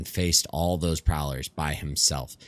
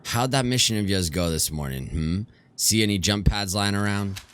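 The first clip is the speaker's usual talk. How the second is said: a hint of pointed sarcasm, pitched up at the edges; lightly voiced accusing friend; 5 semitones higher, 3 dB louder than usual. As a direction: needle them lightly with loaded questions. Ajay confronts Bangalore at her door.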